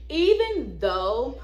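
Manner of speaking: breathless, gasping between words; catching her breath. Real, not acted. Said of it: "hold on, y'all, I'm out of breath".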